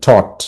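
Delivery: "thought" said alone as one syllable; syllable demonstrated. Shown as a demonstration. Teacher isolating the first syllable for students, "thought" as one unit. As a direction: sound out "thought" by itself. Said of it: "এটা হচ্ছে syllable".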